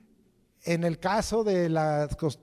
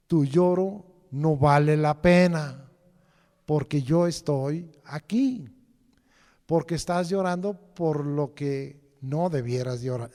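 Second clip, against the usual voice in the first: firm reassurance; 3 dB louder than usual. Acted. Lord reassures the weeping.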